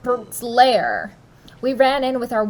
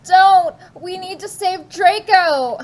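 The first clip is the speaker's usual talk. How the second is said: loud, higher pleading shout; begging; 7 semitones higher, 8 dB louder than usual. Acted. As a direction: beg desperately. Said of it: "We begged".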